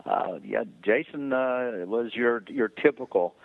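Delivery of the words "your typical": "typical" set out firmly, a little higher; stress on TYPICAL. Real, not acted. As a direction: lean on the word "typical". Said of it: "I stress the word typical".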